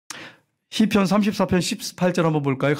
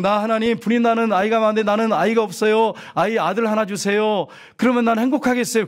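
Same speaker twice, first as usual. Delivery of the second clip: slightly raised, even run-on plea; imitated pleading prayer; 4 semitones higher than usual. Preacher voices a childless woman's mistaken prayer, lightly imitated pleading. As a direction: lightly mimic someone begging God.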